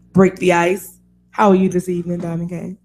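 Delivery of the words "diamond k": ordinary talk, nothing marked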